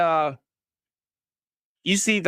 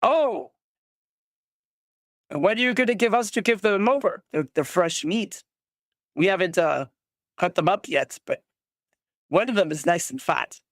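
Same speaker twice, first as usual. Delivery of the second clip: raider voice; 2 semitones higher than usual. Acted. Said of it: "And he goes".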